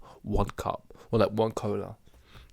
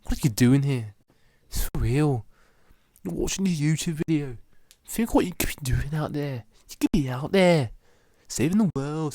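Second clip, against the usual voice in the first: lightly raised, preachy motivational rant; mock hustle guru; 5 semitones higher, 3 dB louder than usual. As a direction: lecture the viewer like a fake hustle guru.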